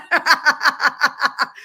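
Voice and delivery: a big burst of laughter; loud laugh. Real, not acted. Laughs after the shout-out.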